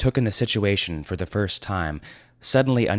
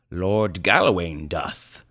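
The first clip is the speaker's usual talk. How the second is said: put-on grim old lord; slower than usual. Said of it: "said Eldrador".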